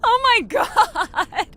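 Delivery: high, loud cackling laugh breaking through the words; unhinged giggling fit; manic laughter. Acted. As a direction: laugh like she's finally snapped. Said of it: "You sound like a lunatic".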